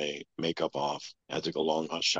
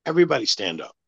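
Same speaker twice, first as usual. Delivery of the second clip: loud, higher barked order to the whole room; commanding shout; 8 semitones higher, 8 dB louder, faster than usual. Retold or imitated. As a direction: snap the order out like a boss who expects obedience. Gates barking order at room.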